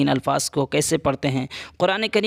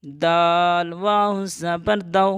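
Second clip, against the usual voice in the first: slow letter-by-letter spelling; teacher spells out نا slowly; 2 semitones higher, much slower than usual. Shown as a demonstration. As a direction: spell نون زبر نا slowly. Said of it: "جلدی پڑھیں گے".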